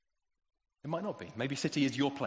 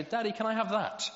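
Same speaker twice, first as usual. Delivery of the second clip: put-on higher, louder kid's asking voice; imitating a seven-year-old boy; 10 semitones higher, 6 dB louder than usual. A boy asks his dad for a toy, in a high, loud child's voice. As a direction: play the little boy begging for a treat in the supermarket. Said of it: "they say".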